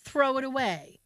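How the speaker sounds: high, slow, drawn-out objection; retold disgust. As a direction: act out a firm, disgusted refusal. Retold quarrel over dropped hamburger.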